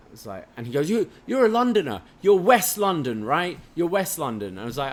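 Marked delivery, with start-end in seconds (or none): 0.9-4.6 high, mock-eager guessing; imitating excited stranger. Bar stranger guessing where the Brit is from, mock eager. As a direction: pitch it up like an over-keen stranger.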